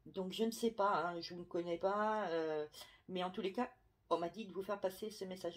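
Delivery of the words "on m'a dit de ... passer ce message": talking through hiccups; hiccuping. Real, not acted. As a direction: speak with small hiccup catches. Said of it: "Excusez-moi, j'ai le hoquet".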